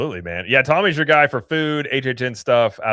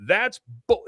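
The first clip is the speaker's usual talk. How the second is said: mock yell; 8 semitones higher than usual. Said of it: "I started yelling".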